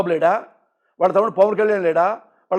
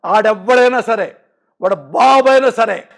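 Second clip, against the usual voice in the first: slow, louder and firm; slow, louder defiant dare; defiant challenge; 5 dB louder, slower than usual. Real, not acted. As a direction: dare anyone, slowly and loud.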